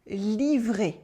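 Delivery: "livré" with a French r and a closed final é; French pronunciation. Shown as a demonstration. Teacher asking learners to repeat "livré". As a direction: model "livré" slowly for repetition. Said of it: "Repeat after me".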